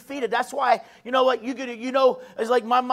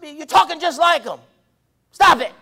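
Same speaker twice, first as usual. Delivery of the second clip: raised-pitch parental telling-off, ending loud; scolding parent; 3 semitones higher, 5 dB louder than usual. Acted. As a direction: scold your kid, building to a sharp order. Acts parent scolding the kids.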